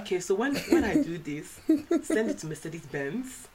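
mum's voice, slow then rising into a laugh; lightly voiced Igbo mum; imitating mum. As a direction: act out mum giving instructions. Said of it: "she's like".

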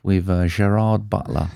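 put-on light French accent on Gerard Butler. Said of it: "Why are you saying everything in a French accent?".

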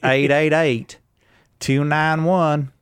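slow, drawn-out Southern accent. Shown as a demonstration. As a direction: stretch the numbers in a Southern drawl. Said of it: "Did that sound Southern to you".

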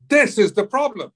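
high, loud retold comeback; exasperated retort. Actor answering co-star's "What's the problem?", mock exasperation.

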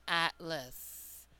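atlas said softly with a reduced uh in the second syllable; demo pronunciation. Shown as a demonstration. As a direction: say atlas as AT-lus, the last syllable a light uh. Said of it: "It was the uh sound".

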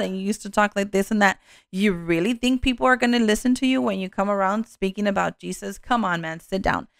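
acting out a scornful accuser, understated; accusatory voice. The enemy talking a believer out of preaching, mildly accusatory. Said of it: "It's an accusatory voice".

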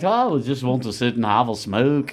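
lightly voiced laid-back musician impression. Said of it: "you sound just like him".

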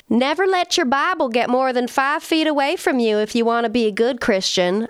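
lightly put-on Southern accent. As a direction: quote the churchy mom in a mild Southern accent. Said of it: "I don't know why I'm giving them Southern accents".

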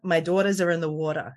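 light New Jersey daughters and water; Jersey accent. Shown as a demonstration. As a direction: lean into Jersey vowels on water. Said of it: "Jersey accent".

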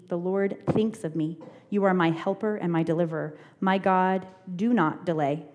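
measured, even reading of a psalm; scripture reading. Acted. Leader reads the psalm to adults, measured scripture reading.

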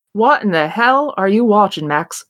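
put-on a light, shaky stab at an Irish accent; lightly put-on Irish voice. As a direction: try an Irish lilt as a character. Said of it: "I'm about to do an accent".

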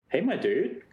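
lightly put-on old-timey greeting, lifted pitch; hint of an old-timey hail. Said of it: "old-timey voice".

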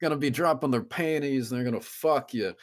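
redneck impression. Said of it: "I wish that impression was".

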